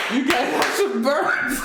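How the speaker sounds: laughing through the words. Real, not acted. Streamer reading comments, laughing. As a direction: crack up while repeating it.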